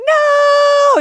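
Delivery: very high, loud wailing no; mock child screaming no; child's screaming no. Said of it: "she's screaming and tears are running".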